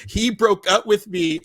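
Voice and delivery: high, drawn-out mock wail; mock crying. Retelling the movie's crying-in-the-car moment, mock crying. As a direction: imitate a slow, high crying complaint. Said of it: "she is in the car crying".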